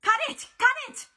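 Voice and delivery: high, loud, repeated command; urgent shout. A narrator's reading. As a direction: yell a frantic order across the room. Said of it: "Hazel shouted from the ladder".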